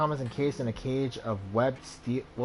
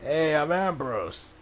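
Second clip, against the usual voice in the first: cheerful shout; 4 semitones higher, much slower than usual. Acted. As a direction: greet the newcomer with a hungover grin. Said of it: "he shouts cheerfully".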